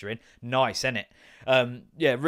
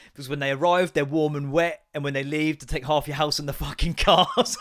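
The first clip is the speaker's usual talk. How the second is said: laughing punchline; 2 semitones higher, 5 dB louder than usual. Retold or imitated. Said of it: "And he went".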